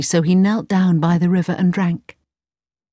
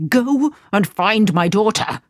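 shouting; 2 semitones higher than usual. Acted. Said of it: "shouted the Sultan".

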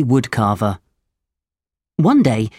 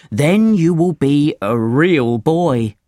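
cricket voice; slower than usual. A narrator's reading. Cricket promises the puppet, slowly.

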